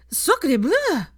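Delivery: high, loud climactic cry; shriek. A narrator's reading. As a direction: shriek it at the peak. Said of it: "came with a shriek".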